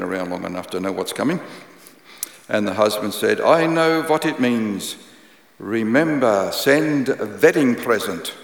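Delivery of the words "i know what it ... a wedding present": put-on Eastern European accent. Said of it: "In his thick Eastern European accent".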